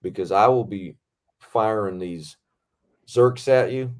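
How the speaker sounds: lightly imitated Southern stunt coordinator; Southern accent. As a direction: give a measured safety briefing with a Southern accent. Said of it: "everyone's got a Southern accent. He's like".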